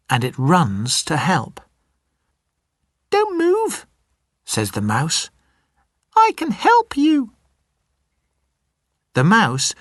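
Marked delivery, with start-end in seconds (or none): 3.1-3.9 much higher, tiny mouse voice; squeaky little mouse. Acted. The little mouse apologizing to the lion, in a high squeaky voice. 6.1-7.3 much higher, tiny mouse voice; squeaky little mouse. Acted. The little mouse apologizing to the lion, in a high squeaky voice.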